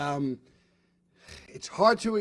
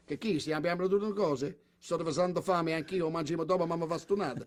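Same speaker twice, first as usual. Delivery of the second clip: fake Italian; 6 dB quieter than usual. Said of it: "I go".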